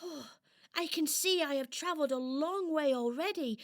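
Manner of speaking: high doll voice thinking aloud; marvel, then wonder if you'll make it; wondering little doll. Acted. Doll climbs and looks out.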